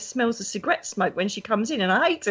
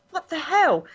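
disbelieving; 7 semitones higher than usual. Retold or imitated. Disbelief at the archangel.

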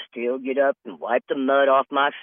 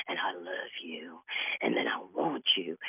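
mock scammer; 9 semitones lower, 11 dB quieter than usual. Scammer voiced low.

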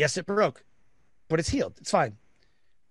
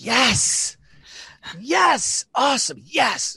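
high-pitched triumphant cheering; gleeful celebration; 8 semitones higher, much slower than usual. Retold or imitated. Dad to kid who failed a test, exultant cheers.

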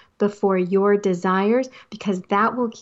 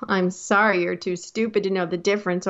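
mock sorry, then a quicker dig; backhanded apology. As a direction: let the apology slide into a mild insult. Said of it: "apologize in a very backhanded way".

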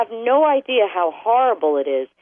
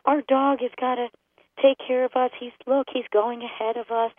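doting owner; 4 semitones higher than usual. Retold or imitated. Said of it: "we look at it as".

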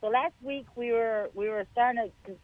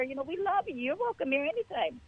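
tender welcome; 5 semitones higher, 5 dB quieter than usual. Retold or imitated. Loving on the young visitor.

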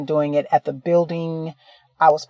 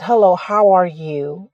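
gently friendly hello, a touch slower; pleasant greeting. Retold or imitated. Greeting an elderly woman gently, pleasant and unhurried. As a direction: greet her kindly so she isn't startled. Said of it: "in a pleasant voice".

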